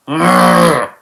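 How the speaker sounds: loud, high angry arrgh; frustrated growl. Real, not acted. Reviewer fed up with the joke, loud frustrated growl. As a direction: growl out real exasperation.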